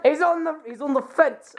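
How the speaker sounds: wandering put-on accent, part Russian, part Scottish; changing put-on accent. Captor reports on a hostage, muddled Russian-Scottish accent. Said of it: "Why am I changing accents?".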